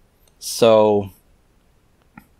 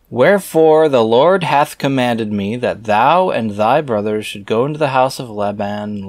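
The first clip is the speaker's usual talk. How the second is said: scripture reading. Acted. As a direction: intone the archaic words like a preacher. Reads scripture aloud.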